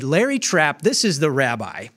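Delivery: a touch of stern anger, pressing hard; firm rebuke. Retold or imitated. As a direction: scold him plainly but firmly. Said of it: "Rightfully angry".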